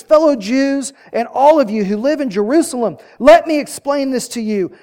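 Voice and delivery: addressing a big crowd, firm and loud. Acted. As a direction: proclaim it above the noise, as Peter. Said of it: "he raised his voice and he addressed".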